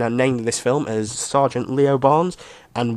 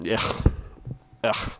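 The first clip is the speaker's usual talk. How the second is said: disgusted groan; 5 dB quieter than usual. Real, not acted. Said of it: "That's my noise".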